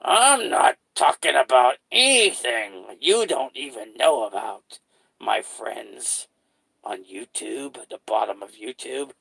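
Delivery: slow, drawn-out clown menace, face turned away; creepy clown voice. Shown as a demonstration. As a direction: drawl it like a sinister clown. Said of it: "and then you kinda do this".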